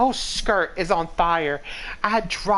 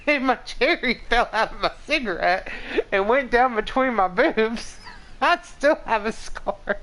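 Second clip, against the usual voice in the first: laughing; 3 semitones higher than usual. Real, not acted. Laughing through embarrassing story.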